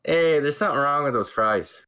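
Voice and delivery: mock Canadian accent complaining about fries; mock Canadian complaint. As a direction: play a Canadian sending fries back. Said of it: "Part of me died in that dialogue".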